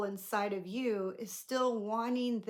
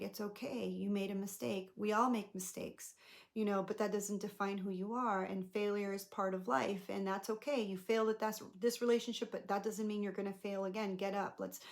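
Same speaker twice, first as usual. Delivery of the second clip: gentle reassurance. Pretend. Comforting her younger self.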